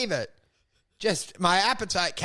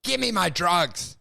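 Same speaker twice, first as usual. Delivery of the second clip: retold angry yelling; 3 semitones higher, slower than usual. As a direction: yell back at the doctor in a hammed-up row. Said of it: "you've been yelling this whole time".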